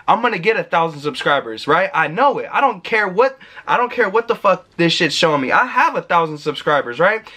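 firm, certain declaration that brooks no doubt; spoken with conviction. Shown as a demonstration. Vlogger shows viewers how to affirm a goal, firmly certain. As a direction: claim it like it's already true. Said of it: "I'm speaking with conviction".

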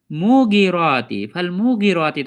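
মুগিরাতি with stretched মু and short গি; reversed elongation. Shown as a demonstration. Teacher showing the backwards habit, reversed elongation. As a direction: lengthen মু instead of গি in মুগিরাতি. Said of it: "উল্টো পড়ে দিই".

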